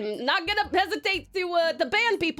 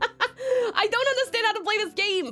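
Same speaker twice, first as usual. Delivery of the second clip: laughing; 4 semitones higher than usual. Retold or imitated. Echoing a played clip, laughing.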